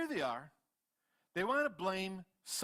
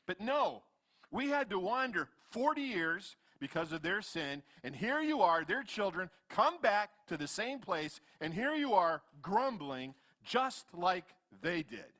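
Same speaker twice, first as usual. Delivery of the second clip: ticked off; 3 semitones higher, 3 dB louder than usual. Acted. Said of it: "is getting ticked off".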